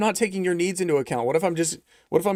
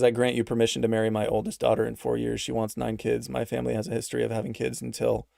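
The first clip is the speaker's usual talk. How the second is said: lower, soft reading of a chat message; reading donor message; 4 semitones lower, 4 dB quieter than usual. Retold or imitated. Streamer reading a viewer's message, low and soft. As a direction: read out the viewer's offer in a low, quiet voice. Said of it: "Kitty Daddy says".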